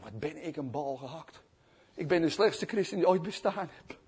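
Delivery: mildly crestfallen; dejected self-reproach. Retold or imitated. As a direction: beat yourself up softly. Peter berates himself, acted.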